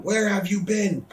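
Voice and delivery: high, drawn-out mock yell; imitated yelling. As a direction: call it out slowly as an angry boss. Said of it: "Vince starts yelling".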